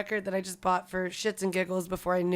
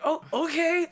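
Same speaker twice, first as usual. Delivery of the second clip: fake interest; 7 semitones higher, slower than usual. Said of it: "trying to act like".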